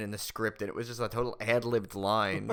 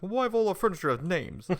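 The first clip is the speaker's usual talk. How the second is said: raised, louder movie comeback; mock comeback; 8 semitones higher, 5 dB louder than usual. Retelling Rodney's back and forth, raised mock comeback. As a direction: fire it back higher and louder. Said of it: "and he's like".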